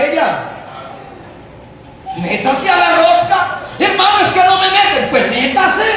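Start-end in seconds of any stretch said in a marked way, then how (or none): 3.8-5.1 mock whine. Mocking excluded youth's whine.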